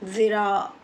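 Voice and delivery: slow ज़िरा with "th" as in "this"; careful slow dental ज़िरा; dental dh variant. Shown as a demonstration. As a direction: draw out "dhiraa" for ज़िरा, tongue at teeth. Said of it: "ऐसे".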